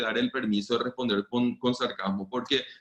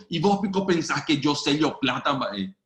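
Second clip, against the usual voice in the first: put-on a raised, louder sarcastic dig at a child; sarcastic jab; 3 dB louder than usual. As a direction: tease him with mock scorn. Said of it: "no va a entender el sarcasmo". (pregunta sarcástica a un niño, burlona y más fuerte)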